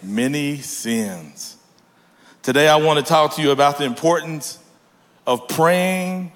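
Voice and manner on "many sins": very slow, measured Bible reading; scripture reading. Acted. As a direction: read out the verse deliberately, word by word. Reads scripture aloud.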